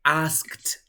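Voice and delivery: "Asked" as one syllable ending in K-T; model pronunciation. Shown as a demonstration. Teacher confirming Jonathan's answer, model pronunciation with final T. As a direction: close "Asked" on a crisp -skt. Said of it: "cómo se pronunciaría el pasado de ask".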